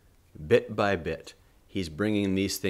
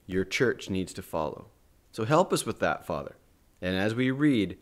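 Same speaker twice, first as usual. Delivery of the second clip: prayer. Acted. Leads a closing prayer.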